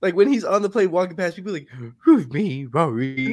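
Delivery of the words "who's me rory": lightly voiced Scooby playing a sweet granny; lower-pitched dog posing as an old lady. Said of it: "a sweet old lady with his voice".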